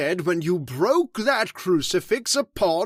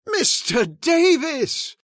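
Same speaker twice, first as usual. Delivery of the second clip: outraged shout; 5 semitones higher than usual. Acted. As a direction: shout him down in shock. Outraged protest at accusation.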